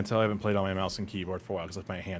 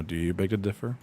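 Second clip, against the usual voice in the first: sultry tease; 4 dB louder than usual. Pretend. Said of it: "You trying to turn me on?".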